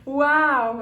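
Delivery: high, giddy laugh of real relief; relieved, laughing loudly through the words. Real, not acted. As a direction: let relief burst out in laughter. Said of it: "I really do feel relieved".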